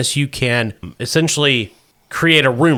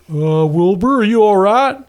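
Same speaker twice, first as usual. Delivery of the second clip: concerned onlooker; 7 semitones higher than usual. Acted. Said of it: "Somebody says".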